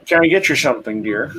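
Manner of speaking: bright and bubbly, welcoming a customer; bouncy shopkeeper. Acted. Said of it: "she's very, very almost bouncy".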